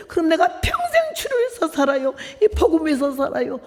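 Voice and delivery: high-pitched fervent vow; impassioned retold prayer. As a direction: promise God with rising fervor. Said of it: "거기서 다시 기도". (높은 목소리로 간절히 서원하듯)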